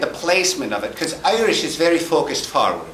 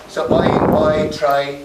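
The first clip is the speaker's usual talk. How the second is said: I and try with the Irish vowel shift; 4 dB louder, slower than usual. Shown as a demonstration. Teaching the audience the Irish I, in an Irish accent. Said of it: "for Irish, you start with the I".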